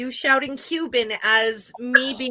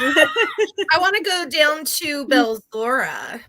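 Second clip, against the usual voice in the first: laughing; 2 semitones higher, 4 dB louder, slower than usual. Real, not acted. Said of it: "laughing while talking".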